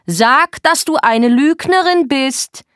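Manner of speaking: high, loud, rising force; furious order. Acted. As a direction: force the confession out. Er erzwingt Geständnis. (wütend befehlend)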